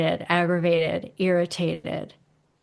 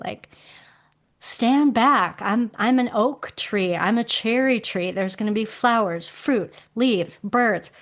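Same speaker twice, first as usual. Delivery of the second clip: defiant tree voice; 3 semitones higher than usual. Retold or imitated. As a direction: speak as a fed-up oak tree that knows best. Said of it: "wood element is like".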